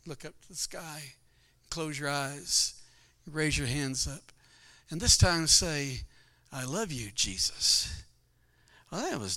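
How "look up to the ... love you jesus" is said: gentle coaching. Retold or imitated. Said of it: "She said".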